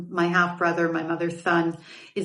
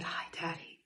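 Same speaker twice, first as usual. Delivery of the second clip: a tiny, frightened whisper, barely breathed; breathless child's whisper to a stranger; 19 dB quieter than usual. Retold or imitated. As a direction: whisper it like a scared little girl. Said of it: "And I whispered it to him".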